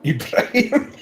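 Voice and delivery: high, slow, laughing name; drawn out through a laugh. Real, not acted.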